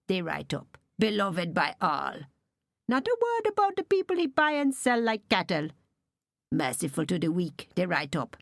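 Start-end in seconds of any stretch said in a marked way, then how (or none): 2.9-5.7 Daniel raging at his father's false tablet; bitter outburst. Acted. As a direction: let the fury break out.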